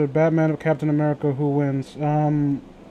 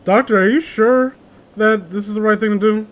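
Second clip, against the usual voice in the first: mock nurse; 5 semitones higher, 4 dB louder than usual. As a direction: question the doctor like a fussy nurse. Playing the nurse.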